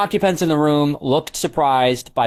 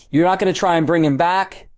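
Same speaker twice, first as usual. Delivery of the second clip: higher-pitched disbelieving question; incredulous; 6 semitones higher than usual. A narrator's reading. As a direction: ask it as if you can't believe it. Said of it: "Molly asked incredulously".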